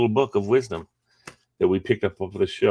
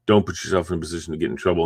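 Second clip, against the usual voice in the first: fast rattled off; 3 semitones lower, much faster than usual. Retold or imitated. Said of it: "when I say things like".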